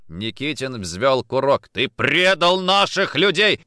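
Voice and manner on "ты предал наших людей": high, slow, loud charge of betrayal; furious accusation. Acted. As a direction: accuse him with rage. Interrogator accuses at gunpoint.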